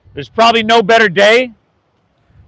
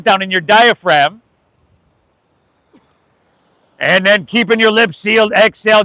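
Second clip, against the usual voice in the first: yoga instructor talking the class through a breath. Acted. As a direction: ease them into the breath, unhurried.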